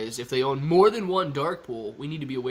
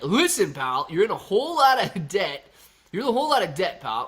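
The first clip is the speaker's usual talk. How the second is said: scolding; 4 semitones higher, 4 dB louder than usual. Retold or imitated. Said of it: "Lisa would be like".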